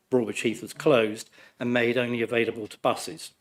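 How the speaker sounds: hoarse, croaky from flu. Real, not acted. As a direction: speak through a sore, croaky throat. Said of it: "Please excuse my croaky voice".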